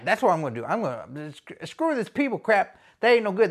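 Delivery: usual speaking voice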